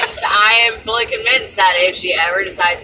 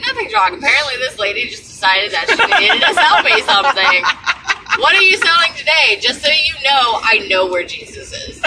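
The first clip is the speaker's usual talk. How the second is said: sarcastic; 5 semitones higher than usual. Retold or imitated. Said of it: "I was like".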